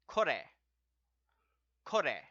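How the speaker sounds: kore said crisp with a falling tune; model word kore. Shown as a demonstration. Teacher models kore for students, crisp and falling. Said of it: "so it is".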